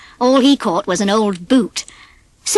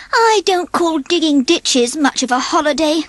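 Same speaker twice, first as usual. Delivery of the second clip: grumbling; 6 semitones higher than usual. A narrator's reading. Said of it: "grumbled Ferdy".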